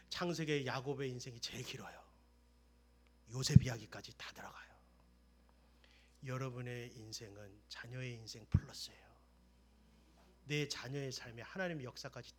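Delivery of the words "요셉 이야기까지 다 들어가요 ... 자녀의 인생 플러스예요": whispered preaching. Acted.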